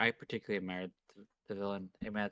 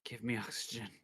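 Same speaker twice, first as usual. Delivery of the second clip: out of breath; 4 dB quieter than usual. Acted. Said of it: "It's hard to breathe".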